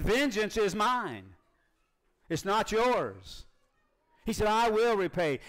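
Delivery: slow, weighty, each word pressed; emphatic divine words. Acted. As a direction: hand down the verdict slowly, like a judge. Repeating God's words, emphatic.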